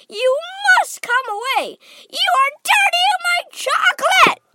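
very high, loud squawk; hopping-mad, frantic order to get away; frantic crying out. A narrator's reading. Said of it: "cried Mister Wonka, hopping up and down".

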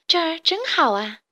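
high, lightly voiced dragonfly; a hint of a delighted little dragonfly; buzzing dragonfly. A narrator's reading. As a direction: exclaim with a light, lifted voice. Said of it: "蜻蜓嗡嗡地说".

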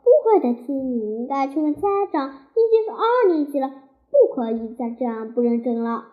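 mild lecture, rushing in the middle; a touch of annoyed scolding; teacher lecturing a pupil about homework, mildly annoyed; somewhat angry teacher. Acted. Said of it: "魏老师有些气愤地说".

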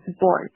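"sports" pronounced like "sborts"; voiced P in sports. Shown as a demonstration. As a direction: say "sports" with the P turned to a B. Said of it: "我们要变成sports". (sports里的p浊化读成b)

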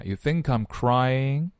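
"think I'm" joined as "thin-kime"; linked k. Shown as a demonstration. Teacher linking k and I for learners, linked pronunciation. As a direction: carry the k of "think" onto "I'm". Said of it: "k和I 连起来".

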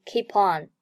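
"keep on" run together as one word; linked pronunciation. Shown as a demonstration. Teacher shows learners linking of keep和on, linked "keep on". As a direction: link the p of "keep" straight into "on". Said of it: "keep和on连读".

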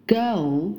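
put-on "girl" drawn out with its final L sounded; correct final L. Shown as a demonstration. Teacher modelling for students, careful dark L in "girl". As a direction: say "girl" slowly, tongue tip up on the L. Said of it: "他没有把这个L的音发出来".

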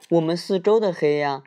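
timid little cub voice; little bear voice. Acted. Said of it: "小小熊说".

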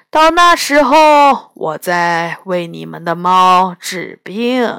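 put-on unhurried old man setting terms; a crafty old immortal, in no rush; slow old healer. 老神仙开价. (慢悠悠的老神仙语气)

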